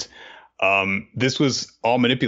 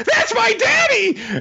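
very high character voice; 4 dB louder than usual. Voicing a character who learns her father will be executed: Otoko's voice. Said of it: "That's the perfect voice for her".

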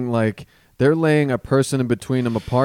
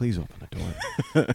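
put-on whispering, quieter; 9 dB quieter than usual. Retelling pleading to oneself at a door: retelling a whisper. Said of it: "I'm whispering to myself".

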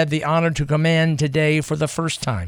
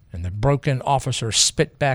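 usual speaking voice

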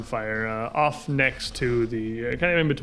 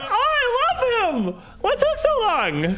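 put-on very high, slow little girl voice, childlike. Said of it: "And she's like".

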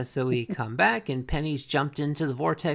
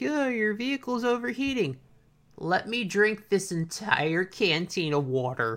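mock taunting tone, higher pitch; 5 semitones higher than usual. Retelling a man taunting someone whose vehicle overheated, mimicking a taunt. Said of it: "the dude is taunting him".

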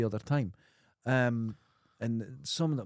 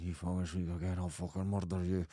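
mock-furious through gritted teeth, much lower, quieter; 6 semitones lower, 6 dB quieter than usual. Retelling a cop in court threatening a woman, through gritted teeth. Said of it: "he talked through his teeth".

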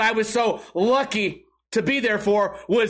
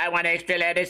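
odd robot-like monotone, weird robotic voice; 3 semitones lower than usual. Acting out what the guy kept saying to her: weird robotic voice. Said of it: "It's a weird robotic voice like this".

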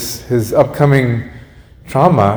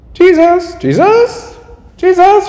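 woman's voice calling out, very high; 4 dB louder than usual. Retelling a scene with jesus, a woman's voice calling out from the background. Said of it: "You hear this woman's voice in the background".

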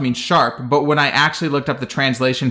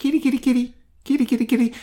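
timid, meek, very high little voice; 11 semitones higher than usual. Retelling what she kept saying the whole time, imitating her soft-spoken, meek voice. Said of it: "in her really soft-spoken, meek voice".

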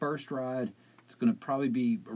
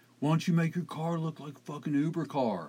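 mock, hostile, angry heckling yell; 4 semitones higher than usual. Retelling a man yelling at the speaker about their car: retelling a yell. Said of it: "Like he's yelling stuff at me".

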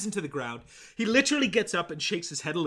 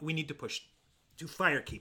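normal talking voice

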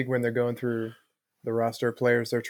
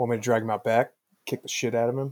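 plain

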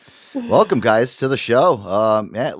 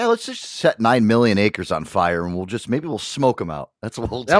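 normal talking voice

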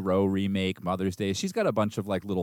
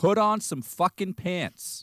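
mock shrill yelling, very high-pitched; 10 semitones higher than usual. Retelling what they kept yelling at the TV during a movie: imitating yelling at the TV. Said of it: "I just kept yelling at the T V".

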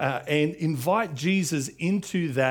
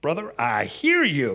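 put-on, casual American accent; 4 dB louder than usual. Voicing a reply in an imagined exchange, put-on american accent. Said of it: "I just had to put an American accent on that".

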